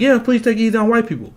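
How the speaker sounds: mocking, pleading liberal voice. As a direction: sneer out a liberal's plea. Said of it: "some liberals that are like".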